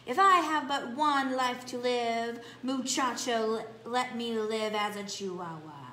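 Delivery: lightly put-on Spanish accent, grandly declared. Kitty boy to his mirror, light mock Spanish accent. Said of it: "using his very best Spanish accent".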